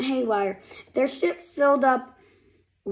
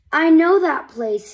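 much louder, higher excited cry; excited recognition; 5 semitones higher, 9 dB louder than usual. Acted. Paxton spotting his home from the ship, excited shout. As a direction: shout it out thrilled to see home.

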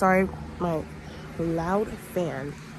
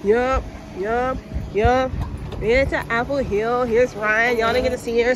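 excited; 4 semitones higher, 8 dB louder, slower than usual. Real, not acted. Excited arrival announcement.

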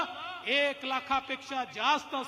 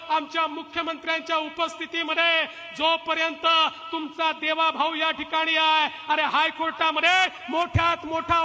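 fiery rally shout; 3 semitones higher, 6 dB louder than usual. Real, not acted. Fiery pledge at rally climax.

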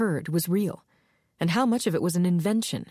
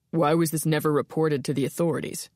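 skeptical detective; 2 semitones lower than usual. Acted. Burkhart questioning Ilona.

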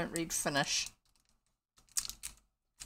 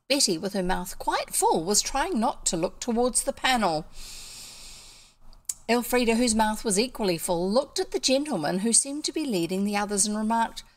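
animated storyteller's reading; story narration; 3 semitones higher than usual. A narrator's reading. Storyteller describing Betty and Elfrida facing the gentlemen, expressive narration. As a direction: read aloud with lilting, expressive phrasing.

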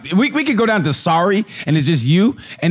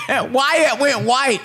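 laughing; 7 semitones higher, much slower than usual. Real, not acted. Laughing mid-sentence.

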